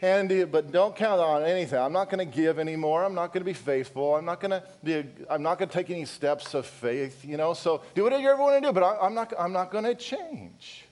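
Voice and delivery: lightly voiced bored churchgoer, dismissive; a hint of an indifferent congregant brushing off the pastor; mock congregation voice. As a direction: shrug him off like a napping listener. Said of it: "what I interpret that as being".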